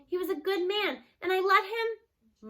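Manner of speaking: grandma in tears over her husband; crying. A narrator's reading. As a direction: weep it out, the last words dragging. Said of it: "Gma's crying for real now".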